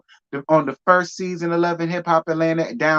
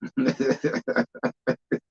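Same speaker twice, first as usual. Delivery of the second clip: high laugh; 9 semitones higher, 5 dB quieter than usual. Real, not acted. Laughing at Drew's failure.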